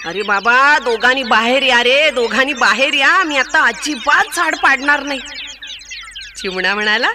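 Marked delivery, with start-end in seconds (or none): 0.1-5.2 pleading elephant. Acted. Elephant begs with headache.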